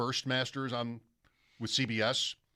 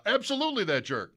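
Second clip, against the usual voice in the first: higher, British-tinged "Absolutely that jerk"; a hint of Ben Wright's voice; imitating Ben Wright; 7 semitones higher, faster than usual. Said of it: "used Ben Wright's voice".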